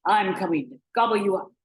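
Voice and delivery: loud storybook troll threat; menacing troll, forceful; threatening troll. Acted. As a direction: threaten to gobble them up.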